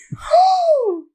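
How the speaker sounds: high, drawn mock gasp; shocked gasp. Friend hearing of the weed, shocked gasp. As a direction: imitate a scandalized intake of breath.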